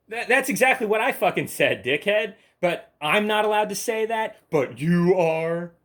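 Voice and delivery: loud, high, indignant rant; outraged. Real, not acted. Ranting at the commenter who copied him, outraged.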